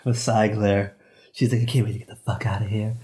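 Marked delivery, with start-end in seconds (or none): 1.6-3.0 lightly voiced annoyed co-host; understated mimicry of a fed-up friend; Jill. Teasing his co-host about her sigh glare, lightly imitated. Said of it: "That's my Jill voice".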